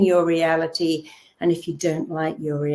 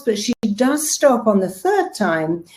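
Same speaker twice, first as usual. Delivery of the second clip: normal talking voice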